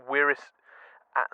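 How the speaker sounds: ordinary talk, nothing marked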